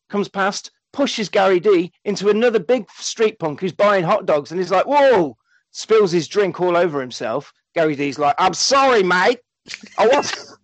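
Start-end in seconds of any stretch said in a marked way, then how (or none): 4.9-5.4 loud, high mock yelp; acted-out jolt of surprise; startled cry. Street punk bumped while buying hot dogs, startled mock cry. 8.4-10.6 higher-pitched, broad mock-Australian impression; put-on London accent that comes out Australian; Gary's Australian-sounding accent. Gary apologising to a street punk, would-be London accent sounding Australian. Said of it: "your accent makes him sound Australian".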